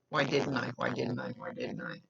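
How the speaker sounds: repeated, fading to near silence; guilty despair. Retold or imitated. Medium voicing the sitter's guilt, fading despair.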